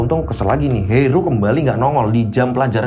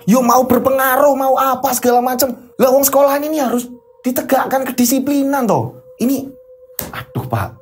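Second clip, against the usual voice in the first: heated teacher; 8 semitones higher than usual. Acted. Teacher insists to the counselor that discipline must hold, raised and heated. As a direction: push the colleague hard, raised voice. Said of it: "Jangan keras-keras ngomongnya".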